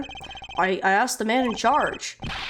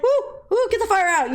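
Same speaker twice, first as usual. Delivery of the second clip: high, loud hammed-up fire alarm; mock alarm; 8 semitones higher, 3 dB louder than usual. Streamer imitating stagehands' panic, high yelp. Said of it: "they go like".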